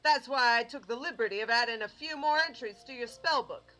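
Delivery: lively in-character mentor explaining; showman mentor. Acted. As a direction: advise a student with theatrical emphasis. Voices mentor giving advice.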